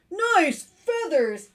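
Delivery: high, loud, stretched-out compliment; lizard calling out. Acted. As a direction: holler it slowly to a friend. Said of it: "said the lizard".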